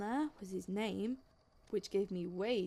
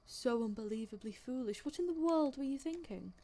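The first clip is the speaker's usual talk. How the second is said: lightly mocked, scornful telling-off; disdainful scolding. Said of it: "the disdain in his voice was clear".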